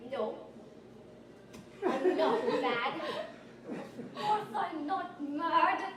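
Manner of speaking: slow, strained imitation of a father; drawn-out mock denial from dad; dad denying anger. Dad shaving, still denying anger.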